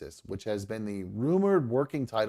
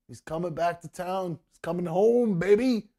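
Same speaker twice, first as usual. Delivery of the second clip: rising excited cry, louder and higher; 7 semitones higher, 4 dB louder than usual. Real, not acted. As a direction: cheer it out like great news. Excited about Superman returning.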